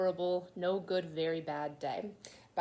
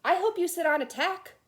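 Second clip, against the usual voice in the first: put-on higher, louder childish jab; spiteful retort; 10 semitones higher, 8 dB louder than usual. Alexander hitting back at Paul, spiteful and loud. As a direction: snap back like a hurt kid.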